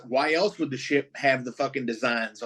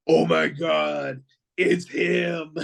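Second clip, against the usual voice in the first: mildly raised, drawn-out awe; nerding out; 3 semitones higher, slower than usual. Retold or imitated. Fan on the edge of his seat as his favorite villain enters, nerding out. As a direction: retell a thrilled fan's gasp of recognition. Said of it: "nerding the fuck out".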